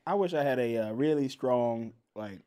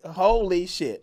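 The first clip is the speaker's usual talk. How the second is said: slow, drawn-out amazement; amazed reaction; 3 semitones higher, much slower than usual. Retold or imitated. Podcaster reacting to a humdinger episode, drawn-out amazement. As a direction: stretch each word out in awe. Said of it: "that I'm like".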